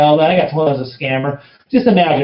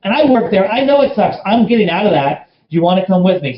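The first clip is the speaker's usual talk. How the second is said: much higher, excited challenge; pumped-up, pitched-up challenge; fired-up pitch; 7 semitones higher than usual. Retold or imitated. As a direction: push him hard, voice way up. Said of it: "So I'm talking like that".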